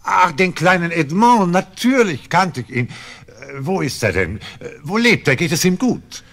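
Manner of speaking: loud, high, eager questions; eager excitement. Acted. Innkeeper hearing of his old friend Edmond, excited loud questions. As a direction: burst out with eager delight.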